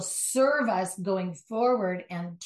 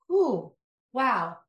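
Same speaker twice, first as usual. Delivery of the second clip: mock easygoing; 2 semitones higher than usual. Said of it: "you can go".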